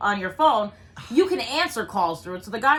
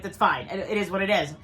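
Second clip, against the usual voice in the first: lower-pitched, understated acceptance; retold resignation; 4 semitones lower than usual. Daughter recalls giving up on her phone, low resigned tone. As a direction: let it go with a mild verbal shrug. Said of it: "I gave it up in my head".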